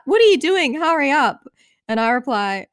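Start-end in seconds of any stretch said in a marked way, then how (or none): 0.0-1.4 high-pitched imitated yell; yelling friend. Friend calling to a girl stuck on the loo, yelling. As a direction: call out high and hurried, as an impatient friend. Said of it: "My friend yells out".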